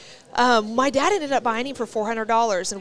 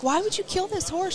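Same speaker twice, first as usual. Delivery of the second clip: much higher, wavering with a hint of tears; retold near tears; 10 semitones higher than usual. Girl confronting the horse's old owner, near tears. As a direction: voice climbing as if about to cry. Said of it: "then I'm about to start crying".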